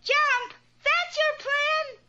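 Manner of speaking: can't believe what she just heard; indignant "that's your plan?"; incredulous. Acted. Rapunzel reacts to absurd plan.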